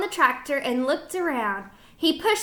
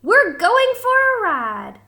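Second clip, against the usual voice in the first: dog's thought; 8 semitones higher, 6 dB louder than usual. A narrator's reading. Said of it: "what he thought was".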